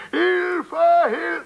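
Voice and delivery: high mock cries of Hilfe; imitating cries for help. The storyteller imitating his drowning fiancée's high mock cries for help. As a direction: call Hilfe in a high panicked voice. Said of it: "Sie schreit um Hilfe".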